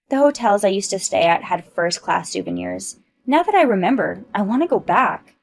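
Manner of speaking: haughty bragging. Acted. Ava brags about hotels.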